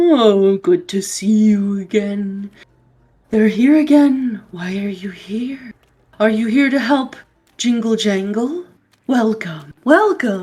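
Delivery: deep, low, slow rumbling ancient-tree voice. Voicing willow-bough creatures greeting the listeners, in a low rumbling voice. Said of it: "they have these like low rumbling voices".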